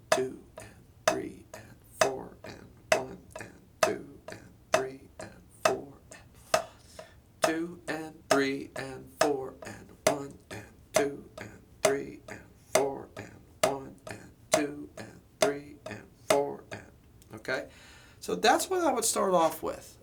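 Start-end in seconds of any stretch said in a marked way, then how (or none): 0.1-5.9 half-whispered count over the drumming; counting the beat. Shown as a demonstration. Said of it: "So something like this". 6.5-16.8 steady spoken count in time; counting the beat. Shown as a demonstration. Drum teacher counting time aloud during the accent exercise. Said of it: "So something like this".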